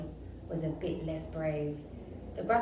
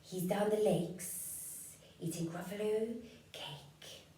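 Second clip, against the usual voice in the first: slow, soft, hissy snake; drawn-out sly whisper of a snake; 5 dB quieter, slower than usual. Acted. Snake sends the child off, slow and soft. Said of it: "said the snake".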